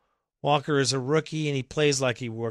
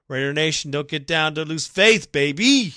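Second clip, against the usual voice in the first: rallying shout; 3 semitones higher, 7 dB louder than usual. Retold or imitated. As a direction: fire up the fans like a cheerleader. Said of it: "That's what he says".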